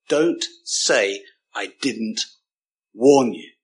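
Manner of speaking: imitating a stern teacher's catchphrase; stern deputy head. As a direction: hold back, then hit "warn you" hard. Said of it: "those days where teachers did shout".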